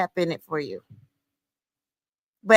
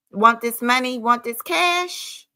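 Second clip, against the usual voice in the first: teasing slow drawl; slower than usual. Acted. Vlogger teasing viewers in her outro, slow and playful. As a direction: tease them with it, stretching it out.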